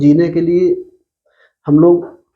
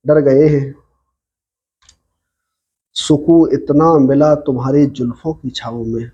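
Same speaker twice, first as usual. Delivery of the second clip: ghazal recitation. Acted. Poet reciting a ghazal to online listeners, measured recitation. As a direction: recite each couplet deliberately, line by line.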